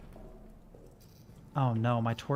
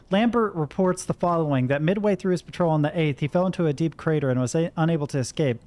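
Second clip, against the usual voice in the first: reading a report. Acted. Reads a wartime report aloud.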